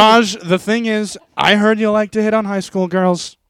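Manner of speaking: lightly voiced debating president; Donald Trump. Trump confronts Raj in mock debate, lightly voiced Trump. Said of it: "I'll do Trump".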